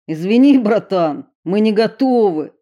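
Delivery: loud urgent shout. A narrator's reading. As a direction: call out the refusal. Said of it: "крикнул Эрик".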